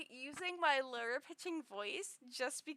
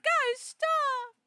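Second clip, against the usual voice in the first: much higher, louder mock protest; mock high squeal; 13 semitones higher, 9 dB louder than usual. Streamer squealing at chat in a high voice. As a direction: squeal it like a screech. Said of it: "I'd be like".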